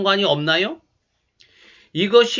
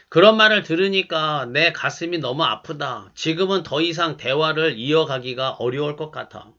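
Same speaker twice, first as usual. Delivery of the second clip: calm and gentle; 4 semitones lower than usual. Shown as a demonstration. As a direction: calmly say you need a pause. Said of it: "차분하게 이렇게 말해 보시기 바랍니다".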